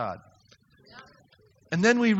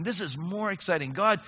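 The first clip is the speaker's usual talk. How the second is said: prayer of praise. Retold or imitated.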